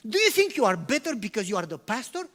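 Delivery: acted frustrated questioning; a little frustrated. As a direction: confront the pastor, mildly exasperated. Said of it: "get a little frustrated".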